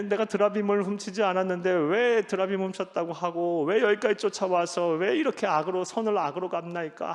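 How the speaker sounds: Jacob's fiery accusation of his uncle Laban; angry outburst. Retold or imitated. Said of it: "하면서 막 불같이 화를 내요".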